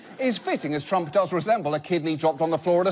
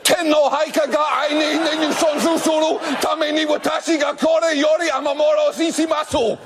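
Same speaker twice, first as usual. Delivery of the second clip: shouted high mock Japanese, declaiming; mock Japanese proclamation; 7 semitones higher than usual. Japan addressing the world, high shouted mock Japanese. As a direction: proclaim the gibberish like an anime hero.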